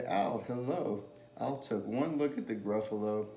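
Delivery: animated picture-book storytelling; lilting story read, with lively character lines; reading to children. A narrator's reading. Reader telling children about a mouse and a Gruffalo, storytelling.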